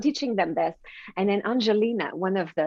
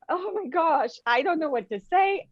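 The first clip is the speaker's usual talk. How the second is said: tearful and overwhelmed, voice raised; choked up; 6 semitones higher than usual. Retold or imitated. Telling the host how the boy's words undid her, tearful. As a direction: caught between tears and disbelief. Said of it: "I'm sobbing".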